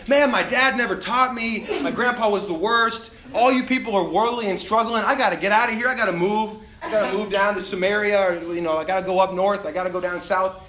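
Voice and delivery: put-on loud, high grumbling young king; whiny complaining voice. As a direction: complain loudly about family. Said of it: "Josiah doesn't say".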